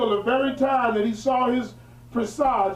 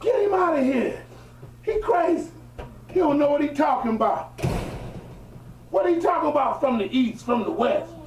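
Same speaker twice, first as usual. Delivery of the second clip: higher-pitched, mildly scornful crowd voice; dismissive crowd; 4 semitones higher than usual. Acted. Festival crowd dismissing the young prophet, mildly scornful. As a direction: voice onlookers brushing off a crank.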